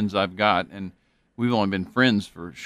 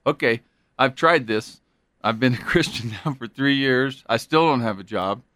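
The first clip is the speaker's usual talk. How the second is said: higher, louder, exasperated street guy; fed-up convert voice; 5 semitones higher, 4 dB louder than usual. Retold or imitated. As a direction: vent like a frustrated believer. Disillusioned convert quoted by leader.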